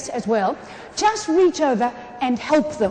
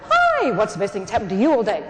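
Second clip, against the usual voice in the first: lively, big "Hi" falling into the question; energetic greeting; 4 semitones lower than usual. Shown as a demonstration. Demonstrating to the fellas how to say it, energetic. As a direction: greet them like it matters. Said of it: "saying it like this is important with the".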